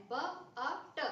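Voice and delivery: ब, अ, ट as separate short letter sounds; sounded out. Shown as a demonstration. Teacher shows which sounds are heard in "but", ब, अ, ट sounded out. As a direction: sound out ब, अ, ट one by one. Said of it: "आपको सुनाई क्या दे रहा है".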